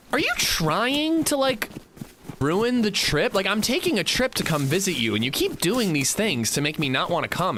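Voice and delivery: mock the complaining friend in a high whine; whiny friend mock. Friend complaining about unsalted butter, in a high mocking whine. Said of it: "he's like".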